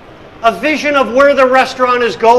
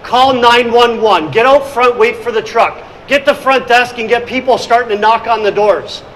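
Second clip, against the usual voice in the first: daughter shouting orders. Retold or imitated. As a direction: bark the orders over the noise. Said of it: "she's like".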